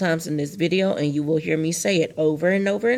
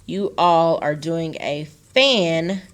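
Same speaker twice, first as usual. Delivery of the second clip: slowed for the split. Shown as a demonstration. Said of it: "see how I broke that up?".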